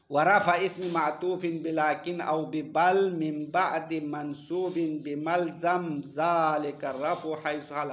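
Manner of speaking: slow, measured chant of an Arabic verse line; recited verse. Shown as a demonstration. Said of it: "हाँ, शेर पढ़ेंगे". (धीमी आवाज़ में शेर का पाठ)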